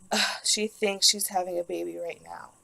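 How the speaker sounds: retold scornful disbelief, opening on a groan; mock eye-rolling. Wheelchair guy scoffing about a patient in labor, mock eye-rolling. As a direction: imitate a dismissive orderly, with an exasperated ugh. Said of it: "This guy rolls his fucking eyes".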